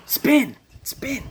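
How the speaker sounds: very high, loud then breathy "spin"; high taunting voices. Retold or imitated. Head voices taunting him, very high.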